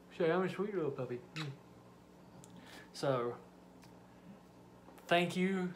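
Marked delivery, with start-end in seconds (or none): 0.1-1.5 dog's voice. Pretend. Voicing the dog.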